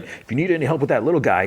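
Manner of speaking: high, quick character voice; Sweet Tooth. Retold or imitated. Offering the holy man help, high fast put-on voice. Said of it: "Sweet Tooth is like".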